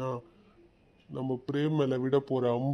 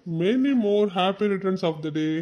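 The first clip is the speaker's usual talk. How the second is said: very slow, stretched birthday greeting; drawn-out wish; 3 semitones higher, 4 dB louder, much slower than usual. Acted. Uncle belatedly wishes the boy happy birthday, very slow and drawn out. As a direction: stretch every word of the wish out slowly.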